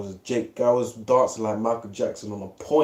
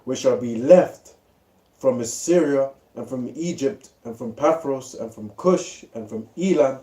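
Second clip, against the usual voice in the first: measured, slightly raised reading of scripture. Acted. Friend reads Isaiah aloud to the group, solemn reading voice. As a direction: read the verse out like a preacher.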